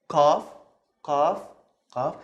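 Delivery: K with the throat opened; throaty K in "qaf". Shown as a demonstration. Teacher demonstrating Arabic qaf, open-throated K. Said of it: "open your throat a little bit".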